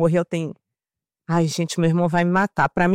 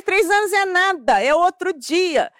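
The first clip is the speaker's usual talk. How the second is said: indignant retort; 9 semitones higher, slower than usual. Retold or imitated. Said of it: "eu tava ofendidíssima".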